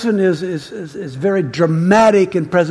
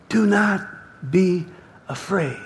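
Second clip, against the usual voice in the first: gentle divine reassurance, word by word; long pauses between words, softening to the end; Jesus; 4 dB quieter than usual. Acted. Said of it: "That's Jesus' voice".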